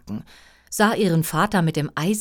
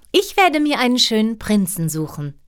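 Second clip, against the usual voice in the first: put-on young princess; 6 semitones higher, 4 dB louder than usual. Princess speaks.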